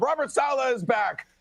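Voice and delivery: ordinary talk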